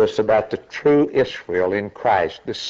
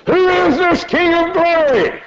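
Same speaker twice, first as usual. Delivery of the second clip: high, loud challenging question; gatekeeper's challenge; 4 dB louder than usual. Acted. Gates answering the herald, high loud challenge. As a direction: challenge like a gate warden. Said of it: "the answer comes back and says".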